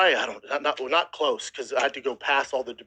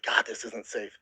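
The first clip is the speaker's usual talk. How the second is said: inner thought; 4 semitones lower, 5 dB quieter than usual. Retold or imitated. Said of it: "In my head, I'm like".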